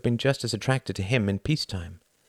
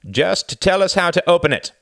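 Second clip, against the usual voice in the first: higher, louder menacing order; threatening demand; 11 semitones higher, 8 dB louder than usual. A narrator's reading. The first gunman threatens the editor, loud menace. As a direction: push him hard for the answer. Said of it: "said the first voice".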